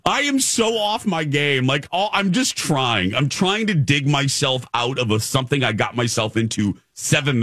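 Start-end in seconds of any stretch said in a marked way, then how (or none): 0.0-1.7 higher-pitched, drawn-out mock despair; mildly hammed-up exasperation at yourself; mock dismay. Retelling his own dismay.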